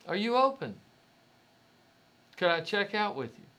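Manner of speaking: high, lifted polite request; gentle, polite asking. Retold or imitated. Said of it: "very gently and nicely said".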